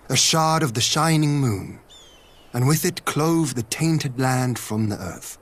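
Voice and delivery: measured, solemn storyteller's recital; telling an old myth. Acted. To a companion, recounting the land's ancient myth, solemnly. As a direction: recite the legend like a fireside elder. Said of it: "One goes thus".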